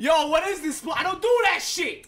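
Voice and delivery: high mock outrage; mock outraged quote.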